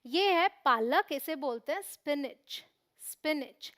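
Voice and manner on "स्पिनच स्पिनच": स्पिनच said as "SPIN-ich"; correct pronunciation. Shown as a demonstration. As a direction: start स्पिनच straight on "s", no "i" before it. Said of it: "यहाँ भी इस पी नहीं बोलना".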